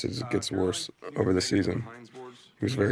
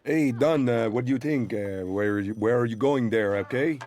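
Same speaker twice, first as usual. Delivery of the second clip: mock Quebec accent; 3 semitones higher than usual. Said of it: "I don't even know what that accent is".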